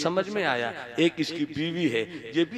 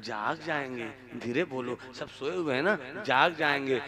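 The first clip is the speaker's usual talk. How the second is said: soft hushing; 3 semitones lower, 6 dB quieter than usual. Acted. Saint quietly hushing her.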